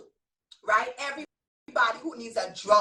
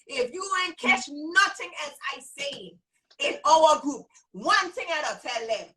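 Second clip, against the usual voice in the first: real island accent from the Virgin Islands, emphatic. Real, not acted. Teacher driving one lesson home to her group, Virgin Islands accent. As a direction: let the VI accent come out. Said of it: "I go in my V I accent right now".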